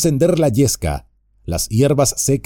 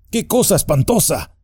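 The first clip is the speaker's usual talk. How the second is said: higher, a touch of fright in the cry; frightened cry; 5 semitones higher than usual. Acted. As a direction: cry out, mildly scared by the tree. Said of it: "gritó Frodo, muy asustado".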